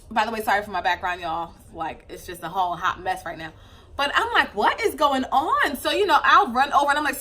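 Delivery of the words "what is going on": slow, higher-pitched mock exasperation; retold bewildered demand; exasperated questioning. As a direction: stretch it out in baffled alarm. Retells reacting to the screaming baby.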